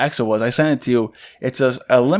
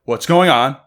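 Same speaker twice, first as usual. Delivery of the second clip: rising higher with each repeated question; mock confusion building to louder alarm; imitating bewildered girlfriend; 7 semitones higher, 4 dB louder than usual.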